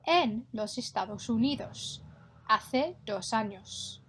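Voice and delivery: clear, careful Spanish for the class to copy; model Spanish pronunciation. Shown as a demonstration. Teacher modelling a Spanish line for pupils to repeat, clear and careful. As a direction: say each sound so pupils can echo it. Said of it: "echo my pronunciation".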